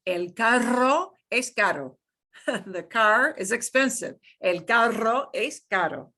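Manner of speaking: "carro" rolled, "caro" tapped; trill vs flap. Shown as a demonstration. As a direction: contrast the two r's. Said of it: "contrast sentence demo".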